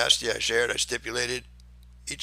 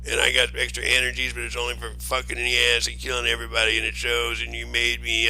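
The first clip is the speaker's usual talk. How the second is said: mocking whiny voice. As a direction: sneer it out as if quoting him. Mocking Steve's imagined words.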